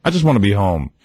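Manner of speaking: low-pitched weary complaint; dad grumbling to himself. Retold or imitated. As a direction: imitate a fed-up father talking to himself. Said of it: "my old man was probably saying to himself".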